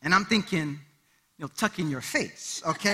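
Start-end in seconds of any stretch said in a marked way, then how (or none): 1.6-2.6 mock inner retort. Inner retort, muttered with a laugh.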